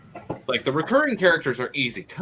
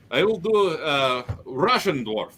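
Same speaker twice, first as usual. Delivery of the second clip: Russian accent; 2 semitones higher than usual. Shown as a demonstration. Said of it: "Ogrim has accent like this".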